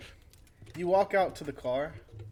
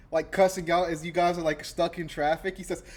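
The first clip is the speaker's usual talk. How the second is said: ordinary delivery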